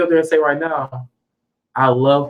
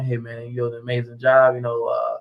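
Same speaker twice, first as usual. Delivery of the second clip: Obama impression; 5 semitones lower than usual. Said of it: "that's how he talk".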